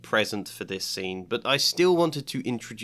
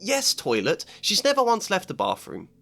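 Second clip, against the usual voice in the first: schoolgirl insisting; 3 semitones higher, faster than usual. Acted. Hermione insists, high.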